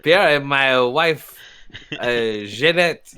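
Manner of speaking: slow, hammed-up French names; mock French accent. Bartender introduces his family in a slow mock French accent. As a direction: drag out Pierre like a French host. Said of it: "Here's my son, Pierre".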